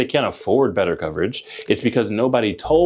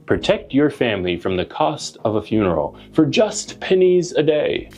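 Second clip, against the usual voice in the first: put-on bright, upbeat old TV commercial voice; chipper 1950s ad. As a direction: sell it like a cheerful vintage announcer. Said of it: "You've seen those commercials".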